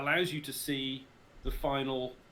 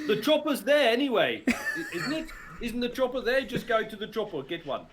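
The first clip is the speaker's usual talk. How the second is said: laughing; 10 semitones higher, 6 dB louder than usual. Real, not acted. Amused reply to game question.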